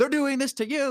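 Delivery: very high, fired-up screaming. Imitating a market commentator screaming in a park: imitating Jose Luis Cava screaming. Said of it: "screaming, he's like".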